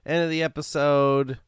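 slow, hammed-up attempt at a Scottish accent; clumsy, drawn-out stab at a Scottish host voice; failed Scottish accent. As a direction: try a Scottish accent and keep losing it. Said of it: "like, a Scottish".

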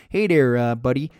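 lightly put-on Canadian accent. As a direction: try a friendly Canadian twang. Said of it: "I'm not great at Canadian accents".

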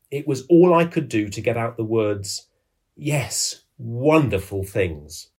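measured storytelling, slowing on the final words; dramatic reading. Acted. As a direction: finish the account with awed pauses. Reads Carter's written account aloud.

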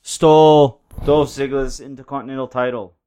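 badly faked Scottish accent; shaky attempt at a Scottish brogue; lightly put-on Scottish wrestler voice; Drew. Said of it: "Get this Scottish".

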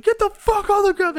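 high-pitched mock order, comically frantic; retold cop's yell. Cop ordering a suspect down, high mock yell. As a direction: imitate a cop yelling a command.

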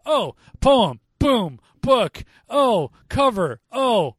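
loud, high rant; ranting about a rushed movie plot; exasperated rant. Real, not acted. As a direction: hammer each step out. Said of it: "ranting, rapid mock steps".

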